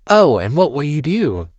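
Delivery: sneering bully voice; mock him, daring; taunting bully.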